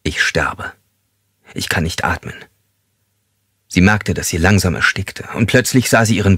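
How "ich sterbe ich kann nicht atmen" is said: breathless whisper, much softer; terrified whisper. Acted. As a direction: whisper in panic under the towel. Suffocating woman's terrified thought. (panisch geflüstert)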